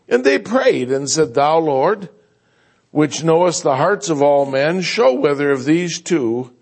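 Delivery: steady, measured Bible reading; formal King James reading; scripture reading. Acted. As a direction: read the passage aloud to the church. Scripture reading before prayer.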